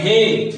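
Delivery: हे held long, a drawn-out call; prolonged hey. Shown as a demonstration. Teacher demonstrates a drawn-out हे for students. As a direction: stretch the हे like calling someone. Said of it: "ज्यादा देर तक हे का उच्चारण होता है".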